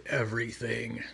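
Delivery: lightly voiced ancient monster; a hint of a menacing demon. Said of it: "doing monster voice".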